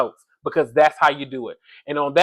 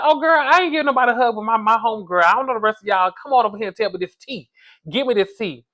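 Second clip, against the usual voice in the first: higher, faster sassy mock girlfriend voice; imitating Kenya; 5 semitones higher than usual. Kenya refusing hugs and demanding the tea, quick and sassy. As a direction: rattle it off brushing off hugs, a bit high. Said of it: "She said".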